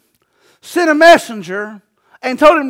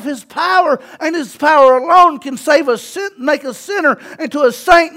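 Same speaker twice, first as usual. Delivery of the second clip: driving, punchy sermon delivery; forceful preaching. Real, not acted. Preacher proclaiming God's power to save, forceful preaching. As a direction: preach it hard, hitting the key words.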